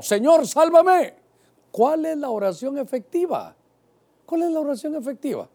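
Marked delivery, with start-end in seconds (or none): 0.0-1.1 high, loud, drawn-out shout for rescue; retold desperate cry. Preacher acting Peter as he sinks, crying out. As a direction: shout the plea slowly, pitched high. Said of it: "Entonces gritó".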